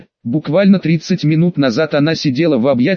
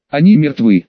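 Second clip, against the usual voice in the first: shouting; 4 dB louder than usual. Acted. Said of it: "выкрикнул Пьюси".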